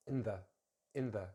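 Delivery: "in the" as one weak unit; short, weak "in the"; reduced, joined. Shown as a demonstration. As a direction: run "in" into "the". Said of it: "so it's nice and reduced".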